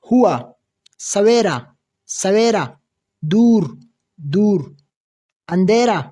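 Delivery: ہوا، سویرا، دور said word by word, each twice with pauses; pronunciation drill. Shown as a demonstration. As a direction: model ہوا to سچا as isolated, carefully sounded words. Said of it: "تلفظ سیکې". (د ہوا نه تر سچا هر لفظ جدا، دوه ځله تلفظ)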